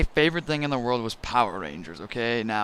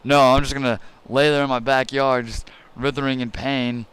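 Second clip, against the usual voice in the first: sarcastic. Retold or imitated. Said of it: "thinking back on it, it's like".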